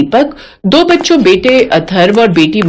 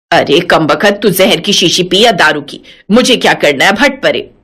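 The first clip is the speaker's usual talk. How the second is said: put-on lower, scolding old mother-in-law; 6 semitones lower than usual. Mother-in-law scolding her daughter-in-law, lower feisty voice. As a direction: play the feisty old saas brushing her off.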